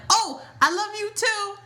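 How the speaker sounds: hammed-up dreamy love you too; lovestruck Chase. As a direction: gush it like a smitten boyfriend. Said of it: "And then Chase is like".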